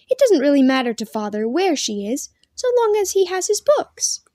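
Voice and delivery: put-on a touch of indignation in a girl's voice; lightly voiced arguing girl. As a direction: argue back in a lightly girlish voice. Girl argues back in story.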